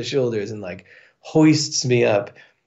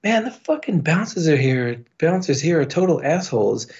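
put-on drunken griping; 6 semitones higher than usual. Drunk griping about bouncers.

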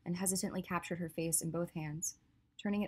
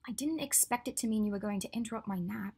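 a touch higher, mildly grumpy; grumbling Hermione; 4 semitones higher than usual. Acted. Hermione grumbles to Draco about her interrupted nap.

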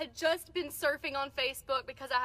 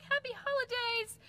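cheery holiday greeting; 9 semitones higher than usual. Retold or imitated. Retold cheery greeting to stranger.

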